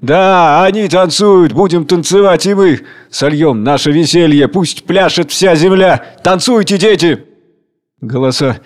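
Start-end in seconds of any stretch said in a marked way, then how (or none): 0.0-7.2 loud, raised proclamation. Acted. Tsar Hunger loudly summoning his children to dance. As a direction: call everyone to dance. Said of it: "Царь Голод громко".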